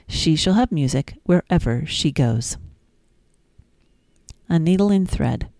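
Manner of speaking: sing-song, lilting nursery rhyme reading; gentle storytime reading; reading rhymes to children. Acted. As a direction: read it like bedtime rhymes for a toddler.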